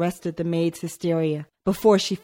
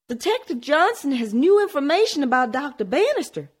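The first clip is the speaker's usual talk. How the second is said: urgent hushed report; 9 semitones higher than usual. A narrator's reading.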